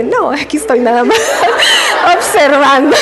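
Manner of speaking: respuesta cortada por una carcajada real; entre risas. Real, not acted. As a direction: contestar al señor sin poder dejar de reír. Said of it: "no me podía controlar". (le responde al señor entre carcajadas)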